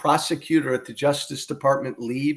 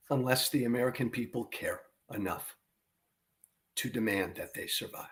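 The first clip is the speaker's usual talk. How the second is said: grave hush; 9 dB quieter than usual. Real, not acted. Commentator warns listeners democracy may not survive, hushed and grave. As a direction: let the warning sink in quietly. Grave warning after heated rant.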